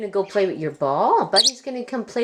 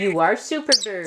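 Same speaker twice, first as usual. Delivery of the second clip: parakeet chatter; 2 semitones lower than usual. Real, not acted. Talking budgie mimics owner.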